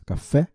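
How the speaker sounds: café with the force on its final fé; stress on last syllable. Shown as a demonstration. Teacher showing the tonic syllable, café stressed on fé. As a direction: lift the pitch and land firmly on the fé of café. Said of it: "a última sílaba pronunciada com força".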